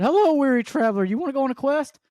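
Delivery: a lightly voiced medieval herald. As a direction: hail the traveler like a storybook guide. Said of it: "the whole medieval, like, mystical journey thing".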